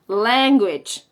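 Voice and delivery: "language" slow, with a frontal A; choni A. Shown as a demonstration. Teacher giving an example of the choni A, "language" said slowly. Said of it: "cuya sílaba tónica es la A".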